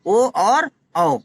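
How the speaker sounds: ओ and औ drawn out slowly with rounded lips; slow rounded vowels; vowel demo. Shown as a demonstration. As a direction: stretch ओ and औ slowly. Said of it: "इसमें कौन से हैं?".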